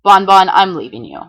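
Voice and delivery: flat, dry deadpan announcement. Acted. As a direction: say it totally deadpan. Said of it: "announced in an absolutely deadpan voice".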